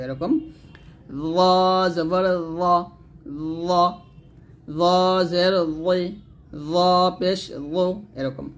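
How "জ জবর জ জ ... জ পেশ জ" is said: "জ জবর জ" with a thick, rounded th-like z; tongue on upper teeth, "জ" full and heavy. Shown as a demonstration. Teacher drilling the thick letter, heavy "জ". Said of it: "মোটা করতে হবে".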